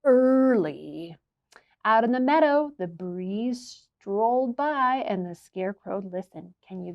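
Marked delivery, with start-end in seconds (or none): 0.0-1.2 sleepy. Acted. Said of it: "said the dog".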